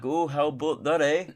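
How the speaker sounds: hammed-up mock Canadian accent; bad Canadian accent. Canada answering a singer at the border, bad Canadian accent. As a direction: put on a clumsy Canadian accent. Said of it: "worst attempt at a Canadian accent".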